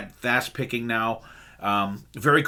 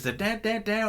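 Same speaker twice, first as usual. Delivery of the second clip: high sung "da, da, da" guitar lick; imitating the riff; 10 semitones higher, 4 dB quieter than usual. Fan humming the guitar call and response, high and soft. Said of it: "a call and response between the singer and the guitarist".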